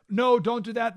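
high, pleading mock panic; mock fearful no. Advisors begging Alexander not to invade, mock fear. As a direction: imitate scared advisors begging. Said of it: "they said".

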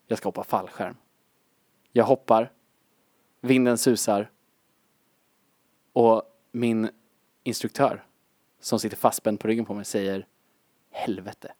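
lightly voiced low, hushed dramatic radio host; mock-solemn sommarprat intro over music; Morgan Alling parody. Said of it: "Morgan All-, det börjar med att han".

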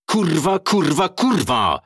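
high, loud furious cursing; furious swearing. Acted. Driver losing it over spinning wheels, furious outburst. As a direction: explode at the car, pitch way up.

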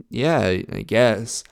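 flat, slow, half-hearted yeah; unenthused. Shown as a demonstration. Answering the girlfriend in a dull blunt tone. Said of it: "the tone of how I say things".

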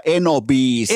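slow, drawn-out, clearly separated syllables; clearly articulated. Shown as a demonstration. Showing how the audience should shout the song request, clearly articulated. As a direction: articulate it carefully and slowly. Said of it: "selkeästi argumentoiden tai niinku artikuloiden".

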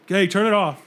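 lightly voiced stern dad shout. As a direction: call it out like a dad giving an order. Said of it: "like, in a dad voice".

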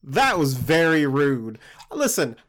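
mildly affronted, then chatty introduction; indignant Smirt. Acted. Player answers the goblins as Smirt.

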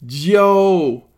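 ordinary talk, nothing marked

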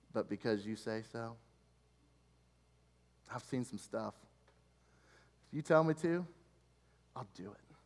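a tired fisherman yielding softly; quiet humble surrender. Retold or imitated. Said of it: "I think it would be like this".

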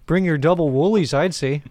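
folksy Canadian advice; put-on Canadian accent. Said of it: "very Canadian accent?".

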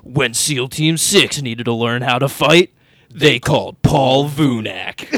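low, slow epic trailer voice; deep dramatic movie announcer. Pretend. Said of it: "in the opening crawl of an action movie".

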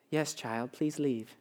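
very soft, low, soothing put-on voice; overly calm Jesus. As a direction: say it with exaggerated serene calm, hushed. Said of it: "the so calm whatever that we always have".

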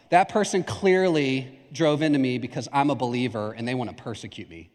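mock aggrieved complaint, sinking low; mock martyr. Preacher mimics driver explaining a crash, mock martyr.

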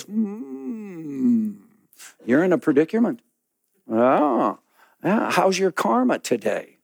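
lightly voiced musing sage; a hint of a calm, pondering monk; musing Buddha. Buddha considering the man's predicament, mildly musing. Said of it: "he goes".

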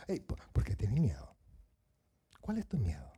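low, mild questioning; just ask it, without raising the voice; calm question, not shouted. Acted. Jesus to frightened disciples, calmly asking. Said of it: "no le gritó, solo les preguntó".

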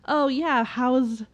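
a hint of the cheery parent voice; chirpy small talk; bubbly persona. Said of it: "put on this bubbly persona".

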